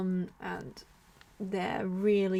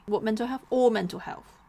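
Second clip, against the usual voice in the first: mock outrage; 3 semitones higher, 5 dB louder than usual. Mocking the mental health label.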